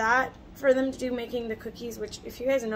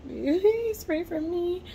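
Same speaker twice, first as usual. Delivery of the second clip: laughing plea; 7 semitones higher, 3 dB louder, much slower than usual. Real, not acted.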